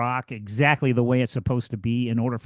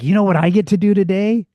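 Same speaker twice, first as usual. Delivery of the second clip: upbeat enthusiasm; 2 semitones higher than usual. Retold or imitated. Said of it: "or it's like".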